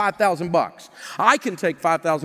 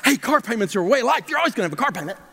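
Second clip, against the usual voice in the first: upbeat, cheery take on the line; mock enthusiasm; 3 semitones higher, faster than usual. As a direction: sell it like good news. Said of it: "no one says it with enthusiasm like".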